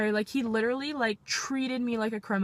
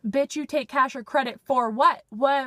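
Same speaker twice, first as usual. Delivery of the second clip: indignant; 3 semitones higher, 5 dB louder than usual. Retold or imitated. Indignant retort about payment.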